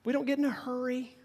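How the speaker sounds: lazy, unhurried Oklahoma drawl; slow Okie drawl. Shown as a demonstration. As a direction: stretch it out like an Okie with nowhere to be. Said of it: "slow Texas drawl like this".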